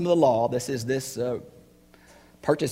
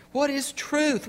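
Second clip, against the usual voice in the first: raised question; 12 semitones higher, slower than usual. Acted. Rhetorical question repeated.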